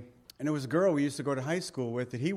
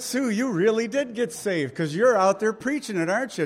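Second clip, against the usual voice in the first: delighted reply; 8 semitones higher, 6 dB louder than usual. Retold or imitated. Pastor's own delighted reply retold.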